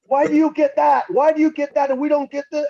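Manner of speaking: high-pitched, slowed imitation of an outraged bandmate; retelling the vodka complaint, high mock outrage; mock Schmier. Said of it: "he's like".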